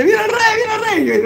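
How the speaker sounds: excited cry. Acted. Beggar announcing the king, high and laughing. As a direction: shout the news with glee.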